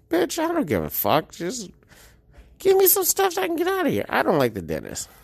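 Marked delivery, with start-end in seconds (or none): 0.1-4.0 annoyed. Retold or imitated. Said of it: "you're like".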